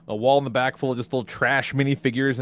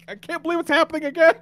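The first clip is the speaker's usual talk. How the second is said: high, laughing, theatrical despair; mock dramatic narrator; 13 semitones higher than usual. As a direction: keep hamming the epic voice.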